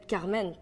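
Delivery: "Carmen" with a French R; French pronunciation. Shown as a demonstration. Saying the name as in French, French "Carmen". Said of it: "you can just say the French version".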